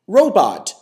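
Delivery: slow, stilted robot delivery; robotic reading. Shown as a demonstration. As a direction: read word by word like a robot. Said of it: "don't read it like a".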